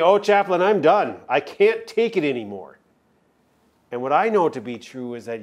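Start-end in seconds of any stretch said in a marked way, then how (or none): 0.0-2.8 mild mock complaint, louder; weary plea. Voicing a worn-out congregant complaining to the chaplain. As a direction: play the exhausted listener pleading. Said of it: "You might be saying to me".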